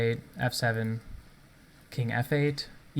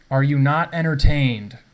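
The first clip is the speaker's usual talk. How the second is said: gladiator taunt; 3 semitones higher, 9 dB louder than usual. Pretend. Showing off flashy chess mate.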